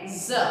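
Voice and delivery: ज said as a buzzing z; nukta z sound. Shown as a demonstration. Teacher repeating the dotted letter, ज pronounced as z. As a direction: voice ज as z, not j. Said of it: "नुक्ता लग जाता है तो उसका उच्चारण".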